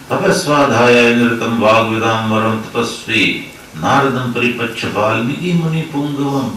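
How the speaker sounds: slow, measured shloka recitation; Sanskrit verse recitation. Acted. Preacher quotes the Ramayana's opening verse to devotees, slow recitation. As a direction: recite the verse with drawn-out syllables.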